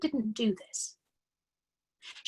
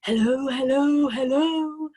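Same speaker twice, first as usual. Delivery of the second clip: higher, louder parrot call of hello; 5 semitones higher, 8 dB louder, slower than usual. A narrator's reading. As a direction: squawk hello down the chimney. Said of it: "the bird called down to her".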